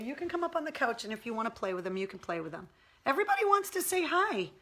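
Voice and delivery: high, sing-song coaxing of a pet. Real, not acted. Owner calling her pug to come get the monkey toy, high coaxing baby talk. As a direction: coax the sleepy pug over with a toy. Inviting pug onto couch.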